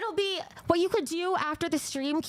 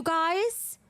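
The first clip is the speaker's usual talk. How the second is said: usual speaking voice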